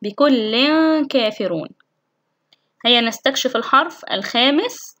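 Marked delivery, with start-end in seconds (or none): 0.0-1.7 hide the tanween of بكل before كافرون; tanween ikhfa. Shown as a demonstration. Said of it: "مثال من تنوين". (إخفاء التنوين بغنّة قبل كافرون)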